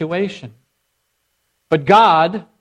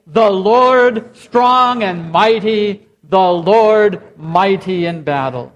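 louder, ringing proclamation with a slow strong and mighty; loud congregational response; slower than usual. Shown as a demonstration. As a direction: lead the room in a full-voiced response. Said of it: "You say".

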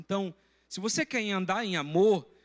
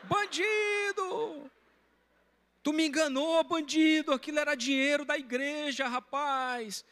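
high, slow drawn-out yell of Bandido; reliving his outburst, yelling high and stretched out; retold shouting; 8 semitones higher, slower than usual. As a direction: pastor yelling at the con man on the street. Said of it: "sem perceber eu comecei a gritar".

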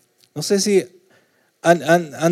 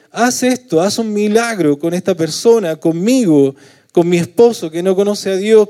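desperate plea; 3 semitones higher than usual. Shown as a demonstration. Pastor acts out a desperate cry to God, pleading. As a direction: beg like a desperate parent. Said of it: "un grito de desesperación hacia Dios".

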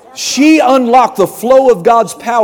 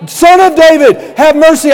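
a blind man who will not be silenced, calling louder; louder crying out; 8 semitones higher, 7 dB louder than usual. Retold or imitated. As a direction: hammer the plea even harder. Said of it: "He just kept getting louder".

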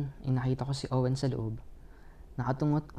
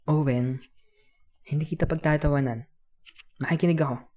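put-on louder, sincere promise to a child; kuya's earnest promise; earnest reassurance; 3 semitones higher, 6 dB louder than usual. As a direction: assure him firmly that you will listen. Promises child he will listen.

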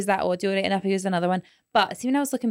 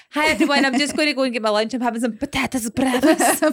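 higher, put-on greeting to followers; social media stories voice; 5 semitones higher, 4 dB louder than usual. Friend modelling a post for stories, higher presenter voice. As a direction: perform a story update, pitched up. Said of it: "when you go on stories, can you go".

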